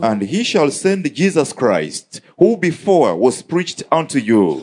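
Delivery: slow, measured Bible reading; scripture reading. Acted. Interpreter reading Acts to the congregation, slow scripture reading. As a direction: read the verse out slowly and deliberately. Reads scripture aloud in translation.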